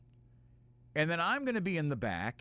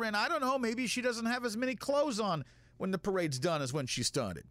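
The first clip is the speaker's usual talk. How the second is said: sheriff voice; 6 semitones higher than usual. Retold or imitated. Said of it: "and this is the sheriff".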